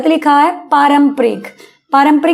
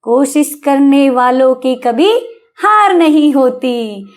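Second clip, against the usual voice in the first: reciting a poem line; slower than usual. Retold or imitated. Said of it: "आपने सुना होगा".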